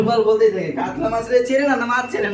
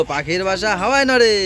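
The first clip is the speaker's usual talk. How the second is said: say it louder. Shown as a demonstration. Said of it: "জোরে বলো".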